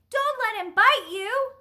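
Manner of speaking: high, loud cry of alarm; shout. A narrator's reading. Woman warns boy about the dog, shouting. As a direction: shout it as an urgent warning. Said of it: "shouted the woman".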